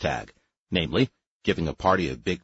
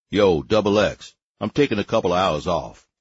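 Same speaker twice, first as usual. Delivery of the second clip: calling out casually; 5 dB louder than usual. Acted. Harry calls his assistant.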